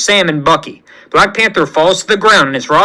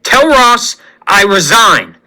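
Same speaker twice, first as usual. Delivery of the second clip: furious shout; 6 semitones higher than usual. Acted. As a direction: scream it at the betrayal. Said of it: "Rhodes screams".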